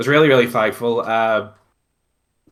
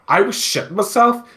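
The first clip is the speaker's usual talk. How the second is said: pitched way up, insisting he was terrified; high exasperated protest; 11 semitones higher than usual. Retold or imitated. Groom telling his wife he was terrified, high exasperated protest. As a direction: squeak it out in disbelief.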